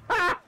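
short, high, loud "ha!"; triumphant ha. Real, not acted. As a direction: burst out one sharp ha as you strike. Attacks a stubborn enemy.

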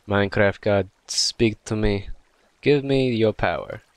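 slow, solemn hammed-up plea to a game god; mock prayer. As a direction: pray theatrically for power.

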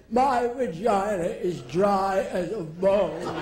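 slow, a hint of an aged star; lightly voiced Stanwyck; mock old screen siren; Barbara Stanwyck. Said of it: "What about Barbara Stanwyck".

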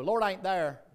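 blunt Southern drawl, short and flat. Retold or imitated. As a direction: say "Lord ain't there" the plain Southern way. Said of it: "In the South, we just go".

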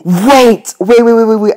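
urgent excited shouting; excited calling out. Real, not acted. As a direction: call out to stop it fast. Game reacts, calling out wait.

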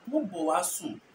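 "Mo bo wa sum" as Fanti says it; Fanti accent. Shown as a demonstration. Teacher contrasting Fanti with Twi, Fanti accent. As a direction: give the Fanti phrase, falling at the end. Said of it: "But Fanti will say".

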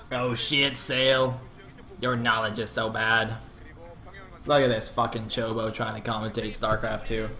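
lightly put-on caster voice, slow and even; mock another caster, drawing the words out slightly; Total Biscuit. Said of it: "just pretend I'm Total Biscuit".

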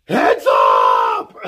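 very low, loud mock shout; mock yell. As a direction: bark it like a warning. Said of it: "he yells again".

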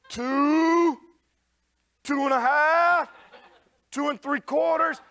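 high, loud, drawn-out count stalling for time; mock-brave countdown with long pauses. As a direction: count up slowly, dreading the swing. Counting down before swinging at spider.

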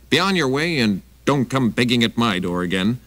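a touch of a gruff hostess; big lady voice. Acted. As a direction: demand it like a wary housewife. Big lady dismisses him.

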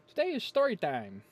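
loud, high announcer call; big announcement. Acted. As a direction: belt out the title. Announcing the video's theme.

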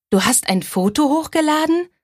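high, startled question; aghast that her photo is online; dismayed. A narrator's reading. Bailey to her best friend, dismayed. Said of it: "fragte ich bestürzt".

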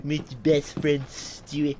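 lightly voiced cartoon baby coaxing; a hint of a cartoon toddler calling his pal; Stewie Griffin. Gamer coaxing Brian in play, light cartoon impression. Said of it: "I know I am Stewie".

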